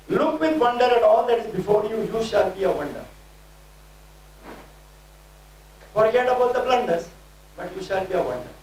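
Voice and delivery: rhythmic declaring, each phrase pushed out; prophetic preaching. Acted. Preacher declaring prophecy over the congregation, fervent. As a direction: proclaim it like a prophet over the crowd.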